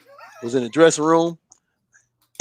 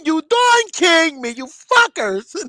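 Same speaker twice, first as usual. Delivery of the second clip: slow mock accusation; 4 semitones higher, much slower than usual. Voicing fighter, slowly.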